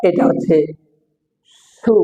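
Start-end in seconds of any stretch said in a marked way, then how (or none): 1.8-1.9 "সু" with a long hissed s at the front; dental s. Shown as a demonstration. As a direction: start "সু" on a clear s, not sh. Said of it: "দন্ত স". (দন্ত স দিয়ে উচ্চারণ)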